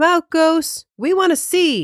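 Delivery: high-pitched calling out. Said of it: "Joe called out".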